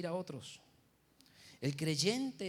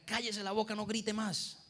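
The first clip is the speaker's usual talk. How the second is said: mildly raised, higher scolding voice; mock parental yell; 3 semitones higher than usual. Father tells his shouting six-year-old to stop, mock yell. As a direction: imitate a father yelling at his child, without full force. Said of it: "usted se la pasa gritando".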